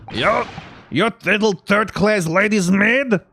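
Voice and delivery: slow, high, loud Russian sailor; Russian accent. Acted. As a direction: sneer it slowly in a big Russian voice. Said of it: "Russian accent when I'm trying to do that voice".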